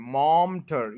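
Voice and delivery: मॉम टर with the i dropped; shortcut pronunciation. Shown as a demonstration. Teacher gives learners a tip, vowel skipped. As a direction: go straight from मॉम to टर. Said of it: "टर बोलते हैं".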